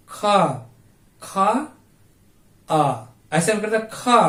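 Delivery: खा said with a clear long आ after it; stretched aa. Shown as a demonstration. Teacher showing the vowel sound after ख. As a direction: draw out the आ in खा. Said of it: "आ का बोध होता है".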